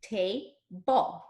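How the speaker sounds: TABLE split in two, ta... ble, each drawn out; finger-stretched syllables. Shown as a demonstration. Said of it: "we'll finger stretch".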